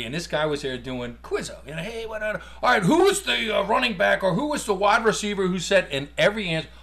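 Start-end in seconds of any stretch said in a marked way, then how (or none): 1.8-5.9 imitating a quizmaster calling out; hamming up the host reading a question; mock quizmaster. Quizmaster calling a question to the bar crowd.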